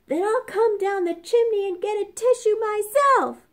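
high, loud mock roar; hammed-up furious wolf. A narrator's reading. Angry wolf threatens the pigs, a loud mock roar. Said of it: "he roared".

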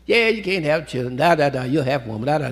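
a hint of a sneering co-wife; taunting rival wife. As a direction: tease her like a spiteful rival. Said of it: "you know, carrying on".

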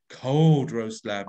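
slow, chilly and cold; cold, icy delivery. Shown as a demonstration. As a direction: say it coldly, slowly, like a frosty wind. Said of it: "The cold qualities".

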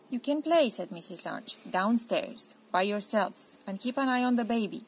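firm mum. Acted. Mother instructs children.

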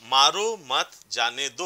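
slow, even मारो, मत, जाने, दो; word by word. Shown as a demonstration. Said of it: "वही चार शब्द".

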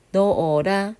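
넣어라 spread out as 너-어-라; demonstrated pronunciation. Shown as a demonstration. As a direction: sound 넣어라 syllable by syllable, silent ㅎ. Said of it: "발음은 넣어라".

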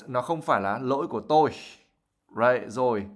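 ordinary talk

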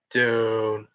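long, held low-register note; deep voice. Shown as a demonstration. Streamer demonstrating voice range to viewers, dropped and held. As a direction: drop down and hold the vowel level. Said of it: "it goes down".

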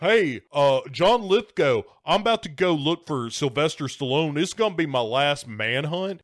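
lightly acted henchman radio voice; Doctor Phil on radio. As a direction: hail your boss over the radio. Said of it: "he's like".

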